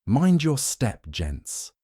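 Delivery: a light Yorkshire groundskeeper, slow, warning; Yorkshire accent, lightly done. A narrator's reading. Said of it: "his Yorkshire accent thick".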